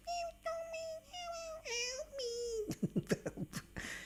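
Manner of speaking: drawn-out high, soft squeaky noise; high squeal. Pretend. High silly sound before title.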